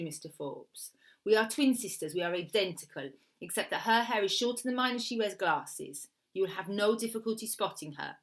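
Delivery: lightly voiced Italian woman, emphatic at first; insistent Italian woman. Woman describing her twin to the killer, lightly voiced insistent Italian client. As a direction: explain firmly with a hint of Italian accent.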